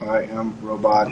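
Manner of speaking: slow, stiff toy robot voice. Pretend. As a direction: speak like a clunky toy robot. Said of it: "not a very good robot".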